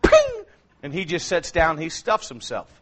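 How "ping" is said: very high, sudden comic squeak; comic high ping from the lionesses; mock squeak. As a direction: leap up into a tiny squeak. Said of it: "the lionesses go".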